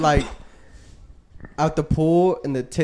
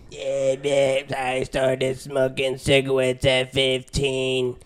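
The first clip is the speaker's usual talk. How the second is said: mock ad voice; 4 dB quieter, much slower than usual. Mocking anti-smoking ad.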